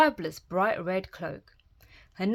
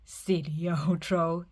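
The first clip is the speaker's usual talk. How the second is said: tutting; slower than usual. Acted. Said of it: "he tutted".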